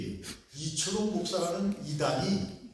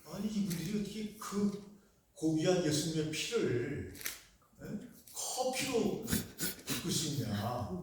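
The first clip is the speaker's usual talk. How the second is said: shocked pastor. Retold or imitated. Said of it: "깜짝 놀랐다는 거예요".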